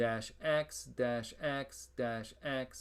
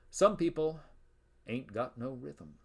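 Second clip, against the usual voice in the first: mock slang; 4 dB louder than usual. Shown as a demonstration. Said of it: "this is a technical term".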